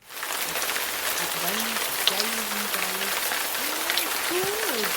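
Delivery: put-on loud, slow, whiny little girl; bored child. Violet complaining about the rain, loud slow whine. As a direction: drag it out like a bored kid. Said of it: "said Violet".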